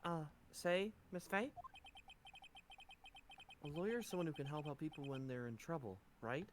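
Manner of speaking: a hint of a young anime protagonist; Makoto Naegi voice. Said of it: "talking in goddamn Makoto Naegi voice".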